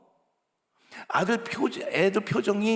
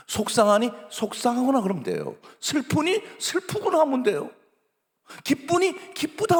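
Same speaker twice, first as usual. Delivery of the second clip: accepting feelings; 6 semitones higher than usual. Shown as a demonstration. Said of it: "그걸 그대로 인정하라고요".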